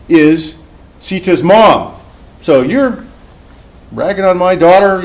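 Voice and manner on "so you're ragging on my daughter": angry mother-in-law. Retold or imitated. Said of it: "the mother-in-law comes in".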